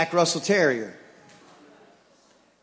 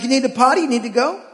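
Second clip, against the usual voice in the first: put-on high, loud baby talk to a dog; dad urging the dog to do its business; 7 semitones higher, 7 dB louder than usual. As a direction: coax the dog to go potty. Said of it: "You talk to a dog".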